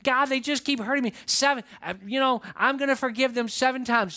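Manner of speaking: playing a proud disciple; acted self-satisfied offer. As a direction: boast of your generous forgiveness. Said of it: "he's feeling pretty good about the seven times".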